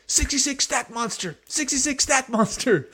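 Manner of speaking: high shouted sports chant; coach shout. Acted. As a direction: yell it like a hyped coach.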